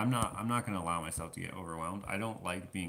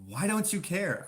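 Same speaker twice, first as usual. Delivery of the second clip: high, loud mock outrage; upset wife; 11 semitones higher, 7 dB louder than usual. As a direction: imitate an exasperated wife, pitch leaping up. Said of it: "she was getting so upset".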